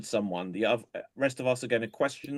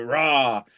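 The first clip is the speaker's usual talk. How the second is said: loud mock lion growl; growling noise; 7 dB louder than usual. Psychiatrists in a joke asked to growl again, loud mock growl. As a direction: give a big pretend roar. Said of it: "make a growling noise".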